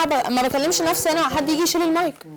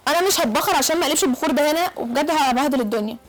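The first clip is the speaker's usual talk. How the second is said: angry refusal; 2 semitones higher than usual. Acted. Guest refusing the incense, angry. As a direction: refuse hotly, fed up.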